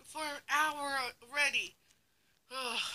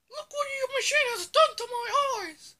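high angry complaint; 10 dB louder than usual. Acted.

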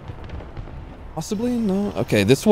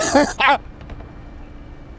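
high breaking giggle; sudden high-pitched laugh; 3 dB quieter than usual. Real, not acted. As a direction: crack up at your own joke. Cracks up at own pickup line.

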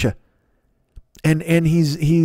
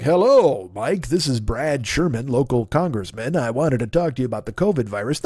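mock politician; 3 semitones lower than usual. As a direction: play a smarmy congressman leaving a message. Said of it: "be like".

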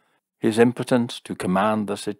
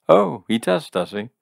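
higher, louder, suddenly perked-up query; brightening; 6 semitones higher, 5 dB louder than usual. A narrator's reading. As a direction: pick up with gleeful interest. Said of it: "said Jim, brightening".

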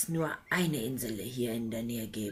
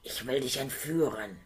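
a hint of a menacing dragon; lightly voiced dragon; 2 semitones lower than usual. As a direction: dragon announcing the kidnapping. Dragon voice continues.

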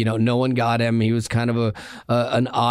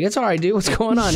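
retold reassurance; 8 semitones higher than usual. Reassuring the nervous kid, retold.

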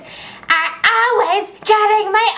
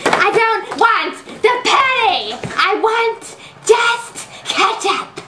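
whiny; 3 semitones higher than usual. Acted. Customer tantrum over ketchup.

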